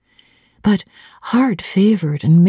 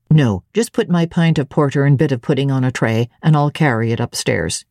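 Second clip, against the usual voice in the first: a lower, plain servant's voice; Grace Poole, lower; 4 semitones lower than usual. Acted. Grace answers cook.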